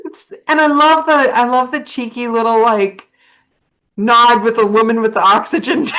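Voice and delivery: high, loud, gushing delight. Real, not acted. Host delighted by her guest's cart story, gushing high.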